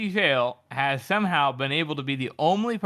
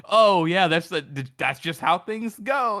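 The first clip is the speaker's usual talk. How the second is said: mock smug philosopher; 3 semitones higher than usual. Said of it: "says it like".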